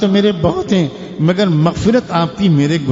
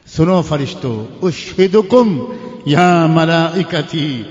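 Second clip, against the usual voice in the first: solemn divine declaration; slower than usual. Acted. God addressing the angels.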